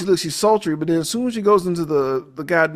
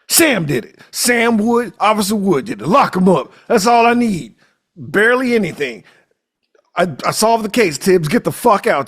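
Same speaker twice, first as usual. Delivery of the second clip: smug sheriff; 4 semitones higher, 4 dB louder than usual. Retold or imitated. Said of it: "Gillespie voiced smugly".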